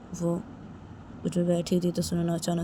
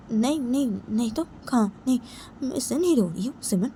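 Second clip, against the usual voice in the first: hasty denial; 5 semitones higher than usual. Acted. Hasty denial of why she cries.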